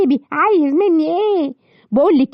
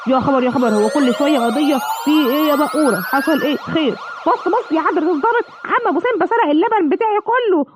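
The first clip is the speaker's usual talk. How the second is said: pleading cow. Acted. Cow complaining to officer about the thief, pleading. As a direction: beg the officer to catch him.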